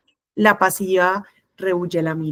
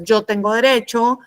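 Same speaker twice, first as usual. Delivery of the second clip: mildly aggressive, slightly raised voice; 3 semitones higher than usual. Shown as a demonstration. Teacher showing students aggressive communication, mildly aggressive. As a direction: push it as a self-centred claim. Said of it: "la agresiva es".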